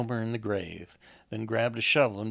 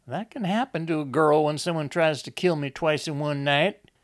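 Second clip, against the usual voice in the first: high, loud retort; aggrieved Lizzie; 5 semitones higher, 5 dB louder than usual. Acted. Lizzie retorts to Enoch about being paranoid, high and aggrieved. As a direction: throw it back at him, pitched up and indignant.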